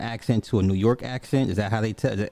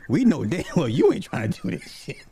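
laughing mock scold; 7 semitones higher than usual. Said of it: "they'd be like".

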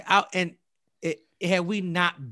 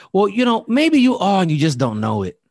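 imitated insistence; 5 semitones higher, 8 dB louder than usual. Stranger insists he might be Native.

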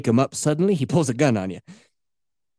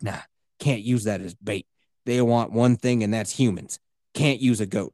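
low and cocky, a big cat hunter; tough hunter; 6 semitones lower than usual. Retold or imitated. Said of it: "doing accents".

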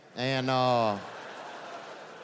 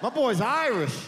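high put-on voice of a stubborn mother; mock drunk mom; 10 semitones higher, slower than usual. A neighborhood mom insists her son is fine, in a mock high voice. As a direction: play the boy's mother denying it flatly. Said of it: "And she's like".

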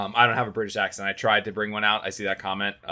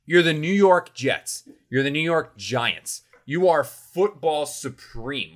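mock grand proclamation; 6 semitones higher, slower than usual. Mock-grandiose hype about the Jets.

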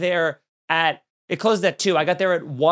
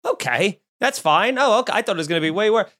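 lightly voiced clerk, higher and relieved; 4 semitones higher than usual. Clerk relieved at a mere late checkout request, lightly voiced higher. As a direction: play her relief with a lifted voice. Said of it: "So she goes".

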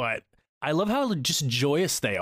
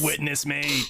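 war cry; 2 semitones higher than usual. Pretend. Mad Max war cry.

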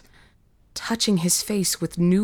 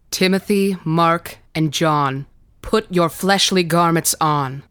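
raised, commanding bishop's voice; solemn command; 4 dB louder than usual. Acted. Bishop calls dead boys back to life, commanding. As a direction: summon them by name with authority.

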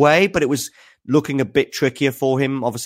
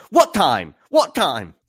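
mock incredulous Medvedev; 4 semitones higher, slower than usual. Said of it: "Daniel Medvedev goes".

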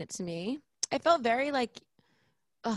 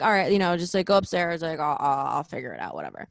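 dismissive plumber; 6 semitones lower, faster than usual. Retold or imitated. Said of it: "And he's like".

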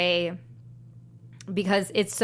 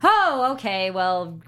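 mock realization; 2 semitones higher, 4 dB louder, slower than usual. Church answering the government's tax threat, mock realization. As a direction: play a sudden convenient change of heart.

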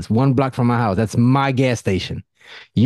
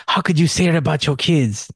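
mock-shocked, higher voice of outraged people; incredulous critics; 6 semitones higher than usual. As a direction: imitate people appalled by his words. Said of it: "And some people are like".

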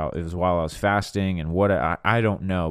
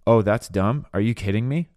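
flying off handle. Acted. Imagined wife answering husband's careless remark, mock indignant. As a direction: throw the insult back in acted disbelief. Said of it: "if she's flying off the handle".

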